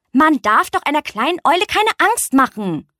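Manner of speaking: mildes, gespieltes Schimpfen, etwas höher; schimpfend. Acted. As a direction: tadle sanft und empört. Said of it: "schimpften die Tiere". (die Tiere schimpfen mit dem Hirschkäfer, mild empört)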